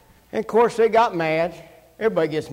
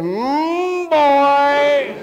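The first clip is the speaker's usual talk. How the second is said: a touch of a shiver; 7 semitones higher, 4 dB louder than usual. Retold or imitated. Everybody reacting to the cold.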